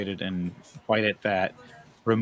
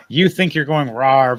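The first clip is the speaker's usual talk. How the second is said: mock dragon roar; 8 dB louder, slower than usual. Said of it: "You sound like one when you do it".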